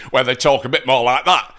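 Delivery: badly faked northern English accent, aiming at Geordie; botched Geordie accent. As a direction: have a poor go at a Geordie accent. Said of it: "I can't do a Geordie accent to save me life".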